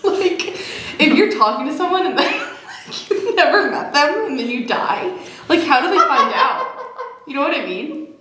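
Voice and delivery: laughing while talking. Real, not acted. Laughing while musing on death.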